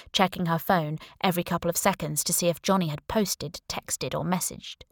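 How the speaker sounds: plain reading voice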